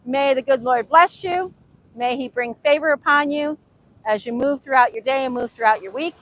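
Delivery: ordinary talk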